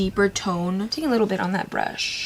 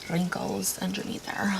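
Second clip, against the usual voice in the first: whispering; 9 dB quieter than usual. Real, not acted. Embarrassed aside.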